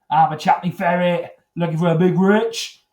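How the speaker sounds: a light hammed-up Cockney accent; mock Cockney geezer, lightly voiced; Cockney gay. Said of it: "You never really get a Cockney gay".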